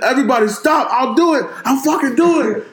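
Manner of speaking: high, mock-frantic Middle Eastern accent; comic imitation of a crazed Middle Eastern man. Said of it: "he got this crazy Middle Eastern accent".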